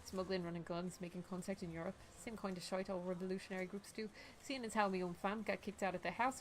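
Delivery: even, restrained character reading; game dialogue reading. Acted.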